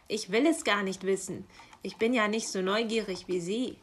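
grumpy, emphatic refusal; growling raven. Acted. Raven declining to look in the parcel, growling. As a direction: grumble at the nosy magpie. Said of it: "knurrte Meister Schwarzrock".

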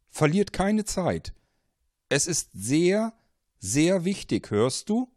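desperate caller, near shouting; urgent warning. Acted. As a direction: drive him out of the house. Caller urges escape.

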